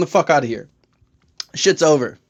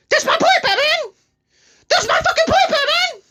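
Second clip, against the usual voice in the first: manic Joker; 13 semitones higher than usual. Acted. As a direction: wail and taunt Batman as a gleeful Joker.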